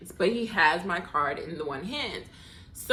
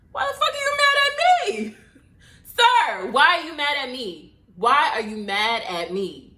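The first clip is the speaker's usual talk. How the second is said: high, loud, exasperated demand; indignant outburst; 5 semitones higher, 6 dB louder than usual. Retold or imitated. Confronting the annoyed bartender, loud indignant disbelief. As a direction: throw the question back at him, fed up.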